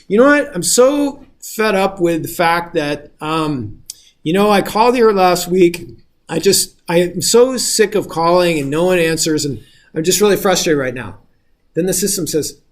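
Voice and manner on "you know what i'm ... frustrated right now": frustrated caller. Retold or imitated. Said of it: "And you say".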